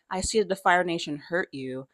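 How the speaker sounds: softly retold, gentle sympathy; tender. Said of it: "have a very tender moment".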